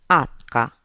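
„Atca" spus fără C-ul de la început, ca un copil mic; fetița rostește „Atca" în loc de Catca, încet și sfios; pronunție de copil. Acted. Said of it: "Asta însemna Catca". („Atca", cu sunetul C înghițit)

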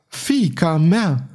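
slow, high, drawn-out howl; a father howling at his tortured daughter; inhuman howl. A narrator's reading. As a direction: howl it out like a wounded animal. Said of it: "cu un glas lipsit de orice accent uman, urlă".

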